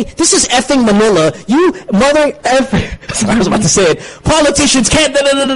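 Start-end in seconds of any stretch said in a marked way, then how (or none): 0.0-2.7 pitched up high, rousing, slowed; a hammed-up speech to the home crowd; mock rally shout. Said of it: "If I wanna say". 4.2-5.5 mock rally speech. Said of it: "If I wanna say".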